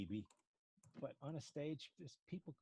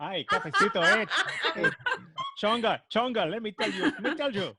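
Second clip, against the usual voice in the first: very high, loud Hispanic-accented riffing; Miami Hispanic accent; 14 semitones higher, 17 dB louder than usual. Shown as a demonstration. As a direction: join in with an exaggerated Miami Latina accent, laughing. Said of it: "I can too".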